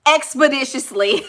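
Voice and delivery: mock-formal big-word delivery; highly learned talker. Learned person hurrying a lover along, mock-formal. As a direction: put on a learned person's precise diction. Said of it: "they say little stuff like that".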